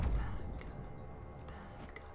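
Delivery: hushed villain whisper; whispered bad guy. Shown as a demonstration. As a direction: breathe it like a villain. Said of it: "That's my bad guy voice".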